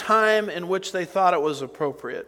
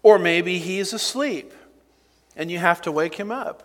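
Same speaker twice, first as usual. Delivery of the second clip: sarcastic taunt. Acted. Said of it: "Talk about sarcasm".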